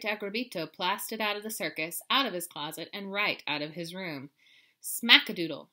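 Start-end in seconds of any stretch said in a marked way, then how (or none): 4.8-5.7 shout. Acted. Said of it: "shouted the kitty boy".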